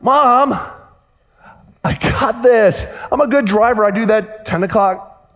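put-on a sixteen-year-old who's sure he's got it; mock shout of teenage overconfidence; cocky teen. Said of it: "I'm like".

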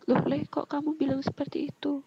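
mildly startled retold question; startled father. Father questioning his son's answer, mildly startled. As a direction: voice a taken-aback dad, fairly restrained. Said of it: "Bapaknya kaget".

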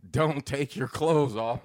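slow, spelled-out warning; drawn-out mock warning; read-out warning. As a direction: read the message out slowly, word by word. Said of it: "it's Janice saying".

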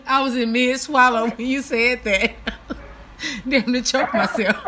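giggling through the words; breathless laugh after choking. Real, not acted.

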